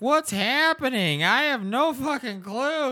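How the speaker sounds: high, loud, bewildered voice; confused husband. Retold or imitated. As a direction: squeal it like a baffled husband. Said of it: "He's like".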